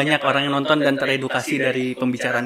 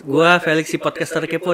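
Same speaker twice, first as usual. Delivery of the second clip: vlog outro. Acted. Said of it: "closing dulu".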